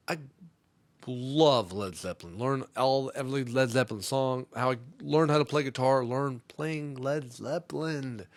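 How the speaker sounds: mildly overeager fan gushing; loud, eager bragging to impress. Acted. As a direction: gush about your favorite band, punching the words. Acting eager to impress the girl.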